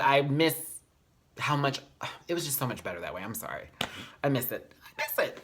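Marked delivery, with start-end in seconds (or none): 3.2-5.4 tearful. Real, not acted. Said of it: "I'm such a crybaby".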